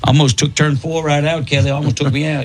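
mock NASCAR driver accent. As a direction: drop into a good-ol'-boy NASCAR driver telling his race. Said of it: "That's how he interviewed the drivers".

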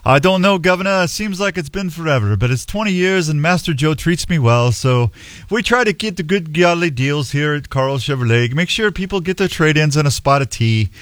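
put-on English valet accent that keeps slipping; badly faked English accent; a loose attempt at an English accent; shaky English accent. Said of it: "You sound a little cagey on that".

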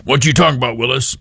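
lightly voiced kid catchphrase, barely changed; a hint of a cute child star quip; Gary Coleman impression. Host imitating how people mimicked Gary Coleman, lightly voiced kid. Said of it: "their impersonation of Gary Coleman".

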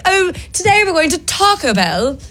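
a light mock British accent; lightly posh British take on "Taco Bell". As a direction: put on a hint of British. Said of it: "like you're a British person".

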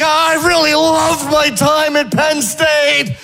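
1 mocking Paterno. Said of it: "He's like".

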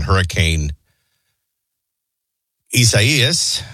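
long pause before "Isaias". Real, not acted. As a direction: hold back, then say "Isaias" after a long gap. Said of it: "Notice the long pause".

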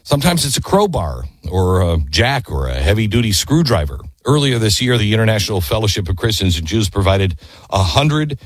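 brisk sponsor read, then slowing on the web address; upbeat host reading a sponsor spot. Acted. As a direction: sell it like a radio ad.

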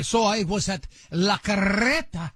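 slow La Carreta with a rolled Spanish r; lightly Spanish-accented "La Carreta". Retold or imitated. Host imitating the comedian saying the restaurant name. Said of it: "you, of course, have to say it".

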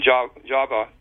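"Java" with a v sound. Shown as a demonstration. Researcher citing the island's familiar name, English pronunciation. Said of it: "Java like we do".

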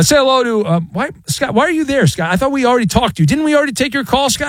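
mock exasperation. Real, not acted. Host mock-exasperated at repeat caller.

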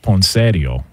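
"poinsettia" with an Italian lilt; in-laws' Italian pronunciation. Retold or imitated. Telling how the in-laws call "poinsettia", Italian pronunciation. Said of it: "the in-laws would call it".

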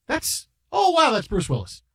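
high, excited gasp of recognition; a touch of starstruck surprise. Retold or imitated. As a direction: catch your breath at a star. Starstruck realization.

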